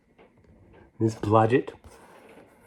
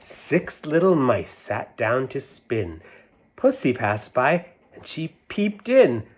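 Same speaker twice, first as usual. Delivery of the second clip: sing-song nursery rhyme reading; lilting storybook recital; 2 semitones higher, slower than usual. A narrator's reading. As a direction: read it like a rhyme to children. Reads rhyme aloud.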